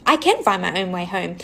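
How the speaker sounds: low-pitched stubborn retort; mildly defiant, digging your heels in. Retold or imitated. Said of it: "I was very stubborn and was like".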